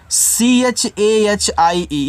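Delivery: letters spelled out one by one, very slowly; slow letter-by-letter spelling. Shown as a demonstration. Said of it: "इसको पढ़ते हैं चाहिए".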